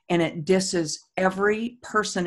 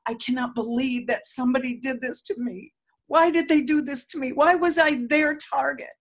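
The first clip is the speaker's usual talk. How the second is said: mock angry tapping script; 5 semitones higher than usual. Shown as a demonstration. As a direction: voice the anger as you tap. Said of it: "sometimes I will just be pissed off".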